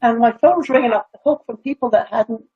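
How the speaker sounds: mic cutting out. Real, not acted. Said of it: "your mic is cutting out".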